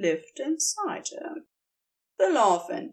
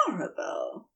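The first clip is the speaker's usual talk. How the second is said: whispering; 7 semitones lower, 8 dB quieter, faster than usual. A narrator's reading. Whispered between kisses.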